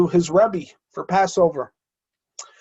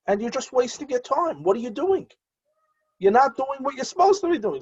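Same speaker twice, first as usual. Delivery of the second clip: raised, stern voice of God scolding; God rebuking; 9 semitones higher than usual. Acted. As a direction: speak as God, high and reproachful.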